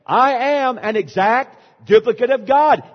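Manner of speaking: loud, high revival preacher; imitating a fired-up preacher; loud revival call. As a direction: push them to mean it, loud and high. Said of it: "the congregation gets into it".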